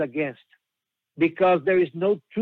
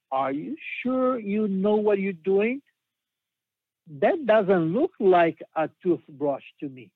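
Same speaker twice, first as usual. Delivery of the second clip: put-on trembling child voice; 3 semitones higher than usual. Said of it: "asked in a trembling voice".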